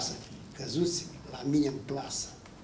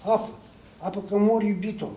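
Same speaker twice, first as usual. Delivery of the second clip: higher, faltering cry for help; trembling plea; 4 semitones higher than usual. Acted. Shaken husband begging his wife for water, trembling. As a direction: beg as if waking shaken from a nightmare. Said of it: "îngăimă tremurând".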